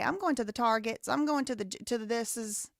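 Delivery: lightly put-on Southern accent; American South speech. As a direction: imitate Southern small talk about errands. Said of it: "what'll they say?".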